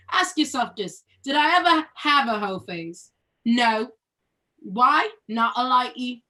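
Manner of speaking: put-on London-flavoured British accent, a touch of attitude. Reading the play to her scene partner in a British accent. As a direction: read it like a South London girl. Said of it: "read it in a British accent".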